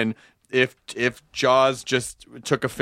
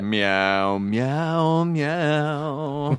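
cat meow; much slower than usual. Acted. Meowing like a cat.

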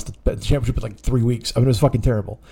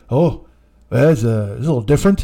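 lightly voiced hesitant Canadian friend; halting, politely understated reaction; Ken; 4 semitones lower than usual. Imitating Ken puzzled by the scissoring chant, hesitant Ken voice. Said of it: "trying to get a Ken impression".

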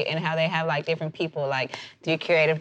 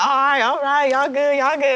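higher, louder calming voice; imitating a rapper; 6 semitones higher, 4 dB louder than usual. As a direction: wave it off like a relaxed star. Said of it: "And he was like".

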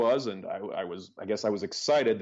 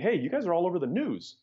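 imitating a caller with big news, higher pitch; excited caller; 7 semitones higher than usual. Founder voicing friends phoning with the news, excited. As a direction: relay the call in a raised, eager pitch.

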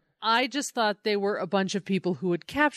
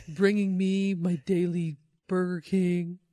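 bad Trump impression; 3 semitones lower than usual. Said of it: "That's my bad Trump impression".

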